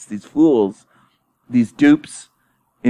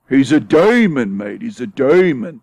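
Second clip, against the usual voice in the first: hammed-up British accent, slow, pitch swooping up on "demon"; Love Bum impression, British accent; 3 semitones higher than usual. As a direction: mimic a Brit, stretching "demon" mockingly. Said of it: "he had a British accent".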